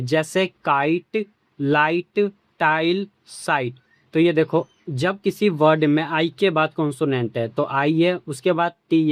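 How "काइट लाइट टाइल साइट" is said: काइट, लाइट, टाइल, साइट said slowly with a full "ai" glide; slow clear model words with the ai sound; ai sound examples. Shown as a demonstration. Teacher slowly modelling the ai sound in example words. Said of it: "आई का उच्चारण आई ही होता है".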